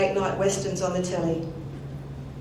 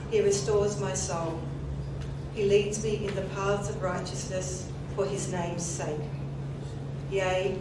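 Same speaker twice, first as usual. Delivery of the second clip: solemn, measured scripture reading; psalm reading; 4 dB quieter than usual. Acted. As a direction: read it reverently, like at a funeral. Reads the twenty-third Psalm.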